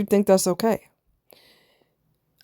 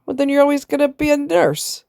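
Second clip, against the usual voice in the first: put-on Italian accent; 9 semitones higher than usual. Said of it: "you know, his Italian accent".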